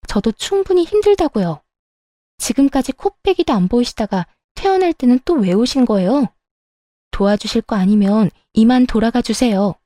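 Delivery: fed up, talking back firmly; daughter-in-law finally snaps at her whining mother-in-law; angry daughter-in-law. Acted. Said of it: "시모한테 화를 다 냈다니까요".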